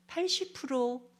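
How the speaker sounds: 팔십 프로 said slow, high and drawn out; emphatic slow figure; stressed numbers. Shown as a demonstration. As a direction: lean hard on 팔십 프로. Stressing eighty percent.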